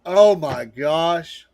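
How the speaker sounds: slow amazed oh my gosh; drawn-out disbelief. Real, not acted. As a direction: drag it out in shock. Disbelief at ugly outfit.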